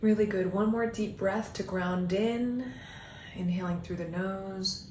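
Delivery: calm meditation guiding with long pauses; guided meditation. Acted. Coach leading listeners down an imagined path, guided meditation voice. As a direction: guide them gently inward, leaving space between phrases.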